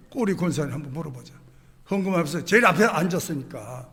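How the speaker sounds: ordinary talk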